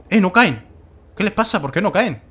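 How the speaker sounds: disbelieving, calling out; surprised. Real, not acted. Baffled that the enemies won't fall.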